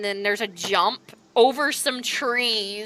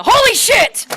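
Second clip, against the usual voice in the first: higher, louder alarmed yelp; startled; 12 semitones higher, 12 dB louder than usual. Acted. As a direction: shout in sudden fright. Merc nearly hits caravan.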